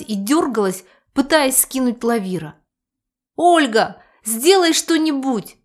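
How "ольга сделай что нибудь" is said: high, loud cry for help; voiced as a desperate young man; panicked yell. A narrator's reading. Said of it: "завопил парень".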